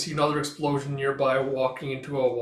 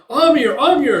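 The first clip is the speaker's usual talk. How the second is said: high, loud shout for someone; calling out; 12 semitones higher, 14 dB louder than usual. Retold or imitated. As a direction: call a name across the chaos. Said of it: "Karluk's calling for her".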